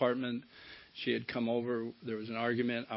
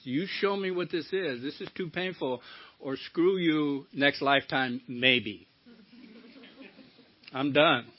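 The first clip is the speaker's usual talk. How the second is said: angry at God; 2 semitones higher than usual. Retold or imitated. Sober man cursing God and quitting recovery, retold anger. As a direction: throw it at God like you're quitting. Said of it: "I got mad at God".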